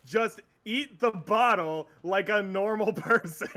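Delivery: slow, every word spelled out as if obvious; slow insistent quote. Retold or imitated. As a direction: drag it out like it's the most normal thing. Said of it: "He's like".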